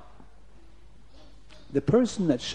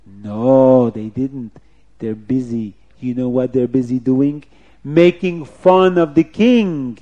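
leak the accusation bit by bit; scheming officer, accusing; 9 dB louder, slower than usual. Acted. Officer telling on the children to the king, accusing voice.

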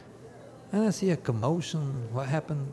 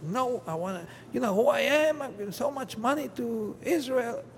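imitating an indignant big shot, higher and louder; mock outrage, who do you think I am; furious protest; 11 semitones higher, 4 dB louder than usual. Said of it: "And he's furious".

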